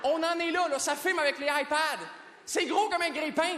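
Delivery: exasperated rant. Acted. Comedian complaining about people filming with iPads, exasperated. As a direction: protest in comic disbelief.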